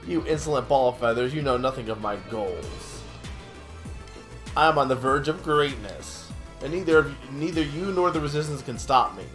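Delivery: gloating villain, lightly voiced; smug villain. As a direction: taunt like a cartoon villain.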